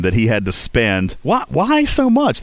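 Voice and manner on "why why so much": high, incredulous outburst; shocked disbelief. Real, not acted. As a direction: gasp out the question in shock. Reacting to huge repair bill.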